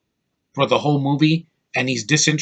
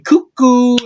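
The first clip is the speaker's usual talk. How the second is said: shrieked high and loud in a mock German accent; mocking German-accented villain yelp; Christoph Waltz's bad accent; 10 semitones higher, 6 dB louder than usual. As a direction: ham up a silly German-accented cuckoo call. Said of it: "with a shitty accent going".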